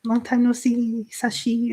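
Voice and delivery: long drawn-out 'yo', easygoing and friendly; mock-exuberant, slowly stretched hello; exuberant American greeting. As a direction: imitate a chummy visitor, stretching each greeting. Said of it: "like, the Americans come".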